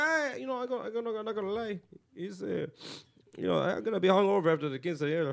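lightly put-on Mexican accent; mock Mexican-accented excuses; Mexican landlord. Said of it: "like the Mexican landlord".

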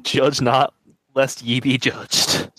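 slow, drawn-out holy intonation; solemn priest motto. Acted. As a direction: stretch the second half out slowly like a sermon. Priest repeats his motto.

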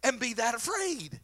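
teasing disbelief. Retold or imitated. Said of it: "I'm like".

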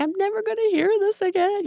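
high-pitched, mildly mock wailing; retold tearful lament. Patient crying at her last checkup, retold tearful lament. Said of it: "I'm crying. I'm just so sad".

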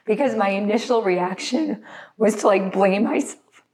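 fighting back tears while explaining; choked-up, halting confession; real crying. Real, not acted. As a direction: push on through the tears. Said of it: "why I'm crying right now".

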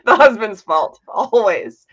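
playful blame, slow and amused; laughing tease. Real, not acted. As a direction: draw out ALWAYS in teasing exasperation. Joking jab at husband, laughing.

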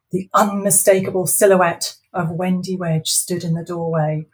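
lively storybook reading; story narration. A narrator's reading. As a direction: read it like a bedtime story. Author reads her story aloud.

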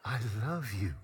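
soft, lovesick mock whisper; retold whisper. Sleepwalking roommate murmuring in his friend's ear, tender mock whisper. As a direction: imitate a sleepwalker whispering sweet nothings. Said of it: "he whispers in my ear".

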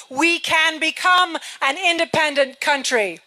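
big rally climax, voice lifted over the crowd; rousing call to the crowd; rallying shout. Real, not acted. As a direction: drive the last line home to the crowd.

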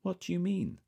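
very high, alert questioning. A narrator's reading. Woken man questions the caller's warning, suddenly alert. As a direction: demand an explanation, pitch leaping up. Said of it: "suddenly sounding much more awake".

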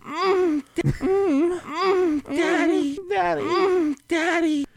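high moaning daddy; falsetto moan. Pretend. Mimicking the daddy sample.

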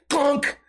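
a quick high clunk sound; the dog hitting the locked door; imitated thud. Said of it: "He'd be like".

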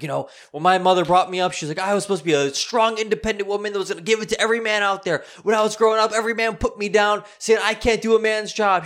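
high, loud impression of her tirade; ranting neighbor lady. Lady rants her life story.

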